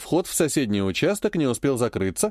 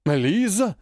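admiring exclamation; 5 semitones higher than usual. Acted. Uncle, stunned, calls out to Lisa in delight. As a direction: breathe out her name in delight. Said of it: "восхищённо выдал".

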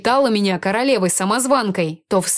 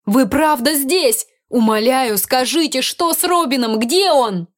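anxious pleading; 4 semitones higher than usual. Acted. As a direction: plead in worried, panting bursts. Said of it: "чуть запыхавшись".

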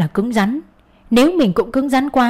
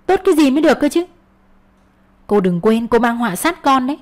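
sharp, raised rebuke; angry retort; 4 semitones higher than usual. Acted. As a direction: snap back in anger. Heated quarrel retort.

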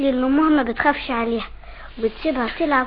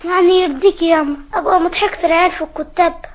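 put-on child's louder, insistent appeal; loud pleading; 7 dB louder than usual. Child afraid of being mocked at school, loud pleading. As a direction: press mum hard to give in.

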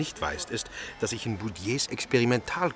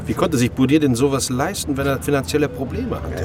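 loud, disbelieving question; incredulous; 4 semitones higher, 8 dB louder than usual. Acted. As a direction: challenge him, he can't be serious. Sceptical questioning of the plan. (laut und ungläubig)

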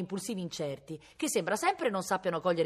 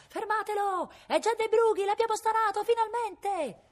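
high, sustained shout, last word stretched long; 6 dB louder than usual. A narrator's reading. Constables chasing the brigand they flushed out, shouting. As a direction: yell it out as if across a hillside. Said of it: "che gridavano".

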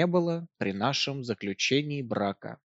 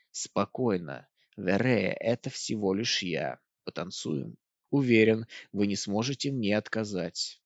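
low calm husband; 4 semitones lower, 4 dB quieter than usual. Acted. Husband speaks low to her.

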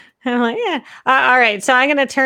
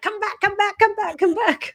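much higher coaxing call; taunting sing-song; 9 semitones higher than usual. Acted. Hungry shark taunts the fleeing pig, higher sing-song. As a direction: lure the fleeing pig back, playfully. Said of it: "I'm gonna be like".

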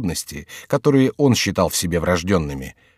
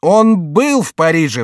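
slow, higher and louder proclamation; shouting; 6 semitones higher, 5 dB louder than usual. Acted. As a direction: cry it out to the crowd. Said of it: "вскричал Лагюриер".

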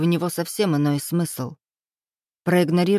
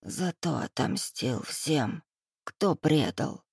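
vague reply; 3 semitones lower, 7 dB quieter, slower than usual. A narrator's reading. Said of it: "расплывчато поделился он".

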